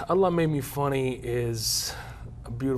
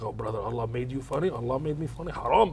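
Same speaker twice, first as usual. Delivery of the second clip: offended brother. Retold or imitated. Offended brothers hearing the title.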